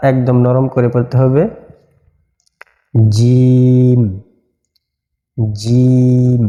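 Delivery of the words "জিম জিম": জিম said firmly with a hard j; জিম articulated strongly and distinctly; firm jim. Shown as a demonstration. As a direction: press জিম out with force. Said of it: "এই হরফটি একটু শক্ত করে বলতে হবে".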